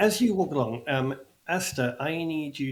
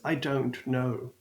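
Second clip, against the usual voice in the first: slow, understated tearful confession; tearful halfling; slower than usual. Acted. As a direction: play her upset, taking it slowly. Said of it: "through the tears, you, she just says".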